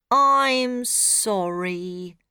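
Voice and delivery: slow, sad robot apology; mournful robot. Acted. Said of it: "says the robot".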